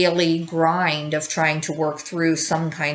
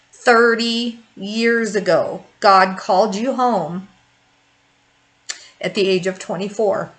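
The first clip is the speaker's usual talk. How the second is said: holding back tears. Real, not acted. Grieving mother rereads son's memorial notice, holding back tears. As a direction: get through it without breaking down. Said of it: "I'm trying not to cry".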